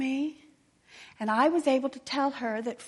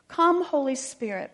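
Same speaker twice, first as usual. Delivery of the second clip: retold prayer; 3 semitones higher, 4 dB louder than usual. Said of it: "I had prayed".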